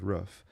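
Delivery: "roof" with a short vowel, rhyming with "hoof"; "roof" pronounced close to "ruff". Real, not acted. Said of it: "yes, I said roof".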